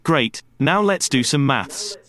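slow, clear teaching voice; kindergarten teacher voice. Shown as a demonstration. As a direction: talk slowly, like to small children. Demo lesson to podcast learners.

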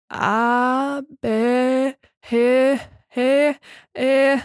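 struggling letters without a tongue; tongueless speech. Acted. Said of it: "Ich ging das Alphabet durch".

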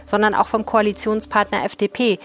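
even, scripted news-presenter delivery; measured podcast news read; news update read. Acted. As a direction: read the bulletin clearly and evenly.

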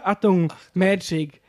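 drawn out, grand "Achtung, Magic"; slow showman announcement. Acted.

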